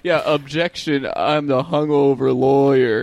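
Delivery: slow, groggy mock courtroom voice; hungover lawyer. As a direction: drag it out, half asleep. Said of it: "Let's do it".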